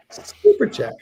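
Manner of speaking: British accent. Shown as a demonstration. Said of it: "in a British accent".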